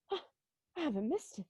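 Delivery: gasped, hushed joy; breathless relief. Acted. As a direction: whisper it in disbelief. Relief at learning the date.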